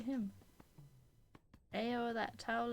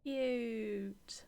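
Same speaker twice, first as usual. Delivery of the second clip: whispered cute. Real, not acted. Quiet aside at cute scene.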